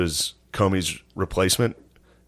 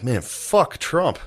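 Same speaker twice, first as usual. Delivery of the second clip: mock outrage; 7 semitones higher, much slower than usual. Reacting to Comey show, outraged.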